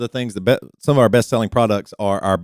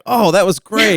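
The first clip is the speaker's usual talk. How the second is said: laughing delight; 7 semitones higher, 3 dB louder than usual. Retold or imitated. Partner pleased with toy, laughing.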